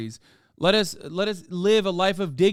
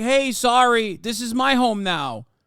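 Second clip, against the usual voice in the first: slow, drawled, put-on Brooklyn accent; 3 semitones higher, 3 dB louder than usual. Imitating settlers from New York claiming a home: imitating a Brooklyn accent. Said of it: "Motherfuckers with a Brooklyn accent like".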